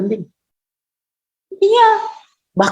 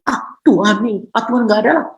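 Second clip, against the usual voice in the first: higher-pitched mock grumble; imagined grumbling; 5 semitones higher than usual. Preacher imagines Joseph complaining about God, mock grumbling. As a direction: play at moaning about God. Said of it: "Yusuf ngomel-ngomel, Yusuf marah-marah".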